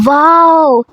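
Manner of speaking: put-on childlike wow. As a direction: gasp it like a kid seeing toys. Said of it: "بچوں کی طرح اچھلنے لگی".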